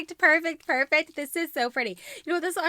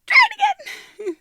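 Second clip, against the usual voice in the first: high giggling try it again; laughing; 9 dB louder than usual. Real, not acted. Laughing at her own flubs, high giggle. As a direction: laugh through it.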